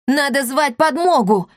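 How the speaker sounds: panicked cry. A narrator's reading. Boys panic amid explosions.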